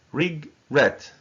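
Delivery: regret split in two, re... GRET; broken-up teaching model of re-GRET; stress on second syllable. Shown as a demonstration. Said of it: "the stress is on the second syllable".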